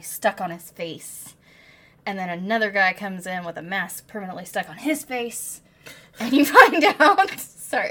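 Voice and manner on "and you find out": dramatics. Real, not acted. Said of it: "I'm out here doing dramatics".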